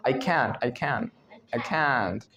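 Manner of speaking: "can't" ending on a held N, no released T; tongue held up. Shown as a demonstration. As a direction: stick the tongue up to end "can't" without the T. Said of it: "ऐसे जीभ ऊपर चिपक जाएगी।".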